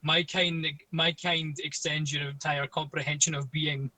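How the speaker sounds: hammed-up solemn proclamation; mock cosmic being. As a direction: intone it like an all-knowing being. Joining the mock-cosmic bit.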